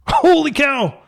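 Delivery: high, slow, laughing exclamation of disbelief; real startled laugh, drawn out; shocked laugh. Real, not acted. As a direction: burst out in amazed laughter at the opponent's play. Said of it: "You had my heart going".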